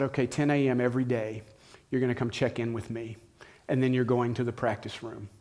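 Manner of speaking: quiet, unhurried instructions from a patient professor; calm and firm. Retold or imitated. Piano teacher calmly giving a lazy freshman new rules, quiet and steady. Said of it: "She just very calmly said".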